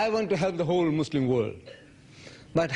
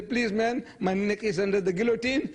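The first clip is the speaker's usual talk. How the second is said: high-pitched retold plea; begging; 8 semitones higher than usual. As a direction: plead for rescue in a raised voice. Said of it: "I go around begging".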